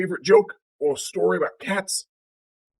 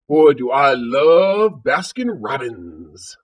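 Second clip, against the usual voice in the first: slow, drawn-out relish; contented cat; 4 dB louder, much slower than usual. Acted. Cat lying down after gobbling sunbathing birds, slow relish. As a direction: savor it slowly like a well-fed cat.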